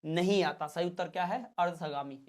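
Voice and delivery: normal talking voice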